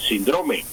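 "síndrome" said sin-DRO-me; alternative stress. Shown as a demonstration. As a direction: stress the middle syllable of "síndrome". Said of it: "dicen también".

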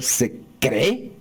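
cree stressed on the last E; acento agudo final. Retold or imitated. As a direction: say se cree as se creÉ. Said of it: "con ese acento". (se cree con acento en la e final)

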